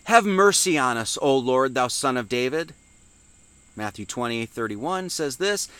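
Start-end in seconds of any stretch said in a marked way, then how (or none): 0.1-2.7 a mildly raised, pleading call; crying out. Acted. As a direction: call out the opening, then ease off. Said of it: "cried out, saying".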